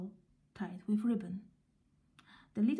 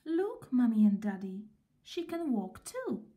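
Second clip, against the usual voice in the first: put-on excited little girl. Little girl shows her new doll.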